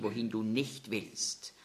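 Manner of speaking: slow near-whisper; hushed. Acted. The Lord foretells Petrus' death, hushed whisper. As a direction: let the words drop to a whisper. Solemn scripture ending.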